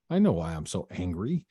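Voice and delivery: dawning realization. Retold or imitated. Realization dawning while working out.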